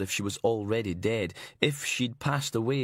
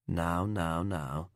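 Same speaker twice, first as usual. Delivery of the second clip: fake English accent; 5 semitones lower, much slower than usual. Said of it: "fake English accent".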